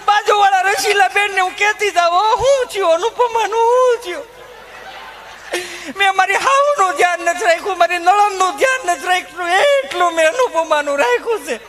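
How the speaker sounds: high, chatty rustic wife voice; high housewife rant about husband and kids; village housewife. Retold or imitated. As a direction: gossip and grumble like a harried mother. Held housewife character.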